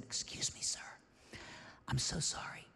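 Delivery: hushed, hesitant apology; timid retold approach. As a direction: ask softly, embarrassed to intrude. Shyly approaches a stranger in story.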